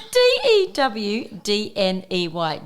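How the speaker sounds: spelled out slowly letter by letter; slow spelling out. Real, not acted. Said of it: "How are you spelling that?".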